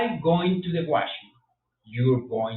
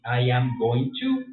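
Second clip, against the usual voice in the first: slow model sentence; 3 semitones lower, slower than usual. Shown as a demonstration. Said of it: "con el verbo to be".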